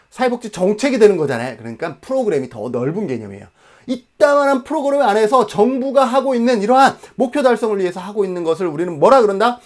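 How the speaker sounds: normal talking voice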